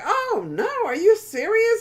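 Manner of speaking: high, loud astonishment; loud, high surprised question; surprised friend. Retold or imitated. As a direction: rise up high and loud in shock. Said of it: "And the guy was like".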